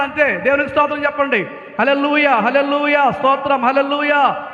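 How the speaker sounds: lively sermon delivery; preaching. Acted. Pastor rousing his congregation to praise, fervent preaching. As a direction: preach to the church with rising fervor.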